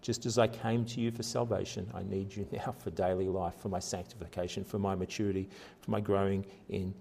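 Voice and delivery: soft, earnest prayer to God; a hushed, sincere cry for help; heartfelt plea. Retold or imitated. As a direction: plead quietly, from the heart. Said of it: "he's actually crying out".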